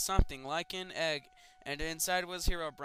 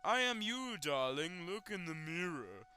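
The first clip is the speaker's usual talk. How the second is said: creepy double; 5 semitones higher, slower than usual. Acted. Sinister double speaks.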